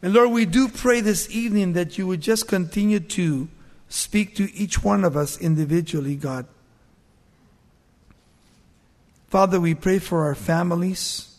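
earnest, hushed pastoral prayer; preacher praying for the families; closing prayer. Acted. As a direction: pray sincerely over the congregation.

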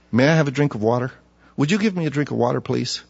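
soft, quick, polite ask, fading on please; polite request. Retold or imitated. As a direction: gently ask for water. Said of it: "His attitude was very calm".

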